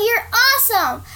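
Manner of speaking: high loud praise; yelling. Acted. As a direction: shout the praise across the ring. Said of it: "yelled Daniela".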